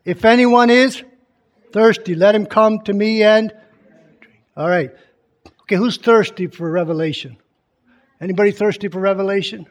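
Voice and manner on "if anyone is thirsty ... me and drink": loud, slow proclaiming call. Acted. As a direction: call it out slowly to the crowd. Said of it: "said in a loud voice".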